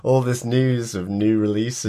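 nasal, croaky sick voice. Real, not acted. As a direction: talk through a blocked, sore throat. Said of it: "my croaky voice".

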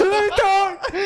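high, slow put-on footballer voice; drawn-out mock pro athlete voice; Kevin De Bruyne voice. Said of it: "sound like Kevin De Bruyne".

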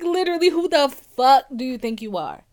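loud, incredulous repeat of a retold outburst; re-enacted indignant telling-off; retold snap of anger. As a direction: hammer it out loudly, acting out the outrage. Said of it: "Something inside me fucking snapped".

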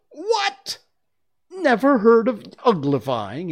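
very high, loud astonished outcry; surprised. A narrator's reading. Gryphon astonished at Alice's ignorance, loud surprised cry. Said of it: "both its paws in surprise".

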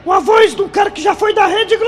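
sensual voice. Pretend. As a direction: play the would-be radio heartthrob. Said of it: "homem da voz sensual". (voz sensual exagerada, bem aguda)

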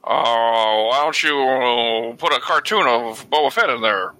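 smug nerdy neckbeard drawl. Pretend. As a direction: play a smug internet neckbeard. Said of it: "make myself sound like a, like a neckbeard".

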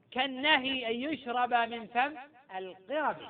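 slow chanted close of the verse; poem recitation. Shown as a demonstration. Teacher ending the recited verse for students, slow chant. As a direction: finish the line in an unhurried recital cadence. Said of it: "قال في المراقي".

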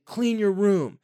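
put-on a frustrated parent snapping at a messy teen; frustrated parent nagging. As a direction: bark out chores like a fed-up parent. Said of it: "they just say".

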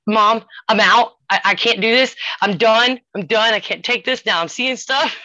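loud, rattled, quitting in fear; a teen daughter bolting in panic; panicked daughter. Retold or imitated. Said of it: "She's, like, panicking".

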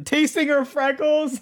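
high, loud, slow disbelief; incredulous. Real, not acted. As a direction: repeat it like you can't believe it. Rereads the line in disbelief.

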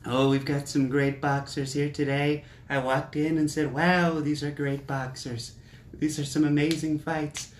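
a light hint of a boastful showman; Trump impression. Podcaster mimicking Trump's commentary, lightly voiced hype. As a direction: hype it up like a ringside salesman. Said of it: "He'd be like".

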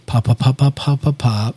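soft pa pops repeated; soft lip popping. Shown as a demonstration. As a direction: tap out gentle pa sounds.

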